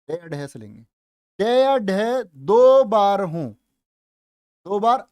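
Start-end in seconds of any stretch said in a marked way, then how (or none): 1.4-3.5 दो बार हों said slowly and loudly, each word drawn out; slow emphatic rule. Shown as a demonstration. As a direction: spell out दो बार हों slowly and loud for the class. (दो बार हों धीरे और ज़ोर से)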